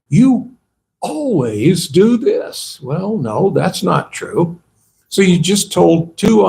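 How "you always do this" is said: mock accusation, slow and drawn out; emotional exaggerating. One person in a verbal scuffle accusing the other, mock emotional. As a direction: stretch out an exaggerated complaint, starting high. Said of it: "They become very emotional. They start exaggerating".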